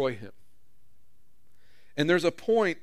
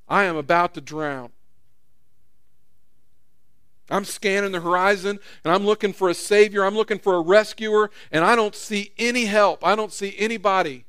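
desperate cry; 3 semitones higher, 4 dB louder than usual. Retold or imitated. Drowning person scanning for rescuer.

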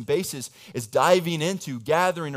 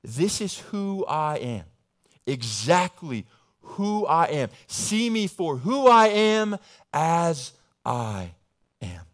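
slow, weighty words of Jesus; a hint of a solemn Jesus; Jesus speaking; 6 dB louder, slower than usual. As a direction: lay out each word slowly and solemnly. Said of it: "essentially saying to them".

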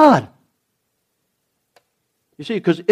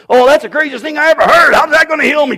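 scoffing disbelief; 10 semitones higher, 5 dB louder, faster than usual. Acted. Acts out scoffing bitten man.

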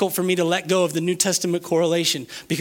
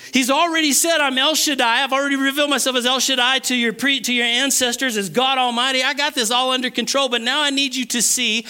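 raised, insistent preacher speaking as God; emphatic preaching; 6 semitones higher than usual. Acted. Preacher voices God telling Israel to see his power, insistent. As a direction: press it home in a higher voice.

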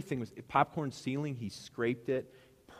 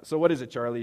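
expectant challenge; 3 semitones higher, 10 dB louder than usual. Retold or imitated. Pastor confronting mechanic over price.

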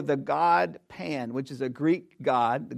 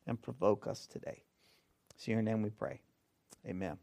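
prayer; 2 semitones lower than usual. Acted. Pastor opening the sermon in prayer, hushed prayer.

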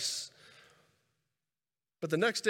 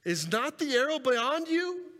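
slow, high-pitched call across a distance; acted yelling out; 7 semitones higher, 3 dB louder, slower than usual. Preacher as Jonathan signalling hidden David, calling out. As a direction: call it out long and high, as if over a field. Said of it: "he hears him yell out".

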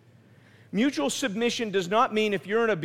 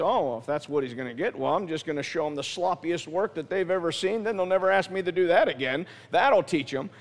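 bad attitude; 3 semitones lower than usual. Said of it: "then you have this bad attitude".

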